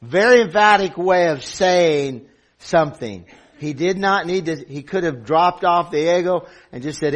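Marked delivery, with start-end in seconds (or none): 0.0-3.2 forceful emphasis. Real, not acted. Preacher explains the Greek wording, loud and emphatic. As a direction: punch it out to the congregation.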